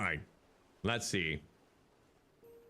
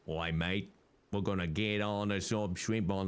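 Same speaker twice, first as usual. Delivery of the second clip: mock Aussie accent; 4 semitones lower than usual. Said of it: "You thought it was an Aussie accent?".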